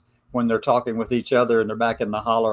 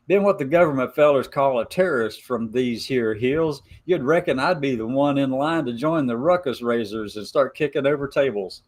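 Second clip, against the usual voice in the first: put-on hillbilly Appalachian accent. Reading Gemini's Appalachian letter aloud in a light Appalachian accent. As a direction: read it like a mountain gal with an Appalachian lilt. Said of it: "hard for me to talk like this".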